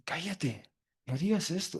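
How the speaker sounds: a soft, hissing order to be quiet; hushing rebuke. Retold or imitated. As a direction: shush him down before anyone hears. La gente manda callar al ciego. (reprimenda en voz baja)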